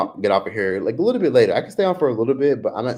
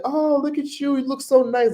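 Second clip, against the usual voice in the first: much higher, teasing sing-song; playful flirty man. Retold or imitated. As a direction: gush at her high and playful. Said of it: "he was like".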